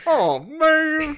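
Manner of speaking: high excited exclaim. Real, not acted. Reacting after the Maury announcement.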